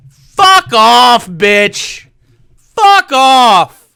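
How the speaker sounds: loud, cursing blast at the screen; angry yell. Real, not acted. Reacting to Candace Owens, a furious fuck off. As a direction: tell her off at full volume.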